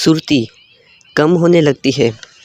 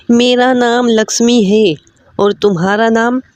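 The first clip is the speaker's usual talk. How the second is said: higher, lightly voiced girl; young woman's voice; 6 semitones higher than usual. Lakshmi introducing herself to the prince, higher girlish voice. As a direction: play a shy, friendly young woman.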